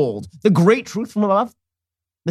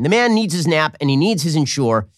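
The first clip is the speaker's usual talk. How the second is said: usual speaking voice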